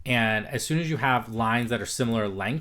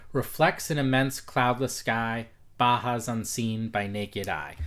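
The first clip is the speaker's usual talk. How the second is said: slow rhythmic reading. Shown as a demonstration.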